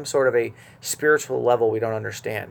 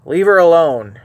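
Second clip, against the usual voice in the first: louder, stern rebuke; dropping the hammer; 4 semitones higher, 8 dB louder than usual. Retold or imitated. Preacher voicing Jesus rebuking Judas, loud and stern. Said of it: "will also drop the hammer".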